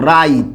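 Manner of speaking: রাইত, রাত said with an extra ই; dialect pronunciation. Shown as a demonstration. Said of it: "আমরা অনেকে আবার উচ্চারণ করি". (আঞ্চলিক উচ্চারণে রাইত)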